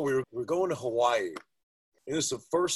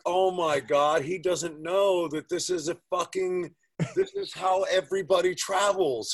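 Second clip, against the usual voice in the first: higher, louder, dawning shock; mock shocked realization; 5 semitones higher, 3 dB louder than usual. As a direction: realize it with amused disbelief. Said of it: "And I was like".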